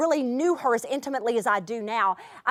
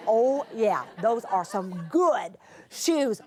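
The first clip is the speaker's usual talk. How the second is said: laughing admiration; 3 semitones lower, much slower than usual. Retold or imitated. Admiring the child's shoes, laughing.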